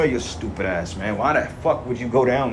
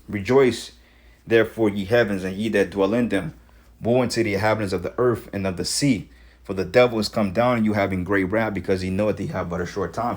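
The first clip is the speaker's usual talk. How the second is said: measured, declaiming Bible reading; scripture reading. Acted. Vlogger reads Revelation to his viewers, declaiming. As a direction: read it like a verse from the pulpit.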